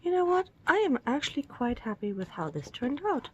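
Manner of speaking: delighted with the result; pleased. Real, not acted. Pleased with finished ornament.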